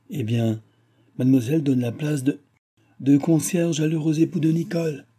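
lightly mocking, the pitch climbing on époux; a touch of sneering irony in the offer; ironic. Gilbert mocking Nicole's marriage offer, ironic. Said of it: "avec une ironie".

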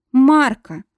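cry of protest. A narrator's reading. Pinned woman cries out the attacker's name. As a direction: cut him off sharply.

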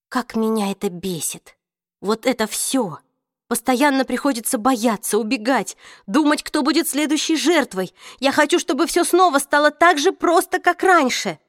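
building from tense to shouting; frustrated outburst. Acted. Героиня в отчаянии выплёскивает злость. (нарастающий отчаянный крик)

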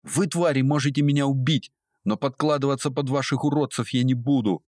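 high, furious and defiant; defiant anger. A narrator's reading. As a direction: fling it at the captors in rage. Captive girl defies her captors. (высоко, с яростным вызовом)

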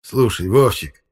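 slow, coaxing address; pleading. Acted. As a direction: draw out the name to ask a favour. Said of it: "просительно сказал электрик". (просительно, протяжно)

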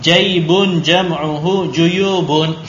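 slow, drawn-out vocabulary recitation; drill reading. Shown as a demonstration. Teacher reading singular and plural for the class, slow drill voice. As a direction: read it slowly for a class to repeat. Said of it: "Naqra al kalimatil jadidah".

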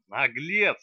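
loud outraged cry; shrieking. Acted. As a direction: scream the insult. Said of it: "завопила в свою очередь она". (завопила в ответ)

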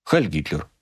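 calm, understated salute; composed and matter-of-fact. A narrator's reading. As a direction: say it evenly, without fervour. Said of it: "спокойно сказал".

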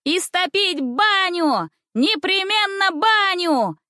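high, slow shouts; shouting girls. Acted. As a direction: yell it from across the room. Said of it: "кричали в другом".

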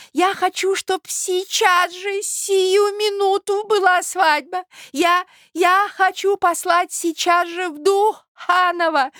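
put-on high, slow, eager old man; high slow ecstatic old man; rapturous old prince.

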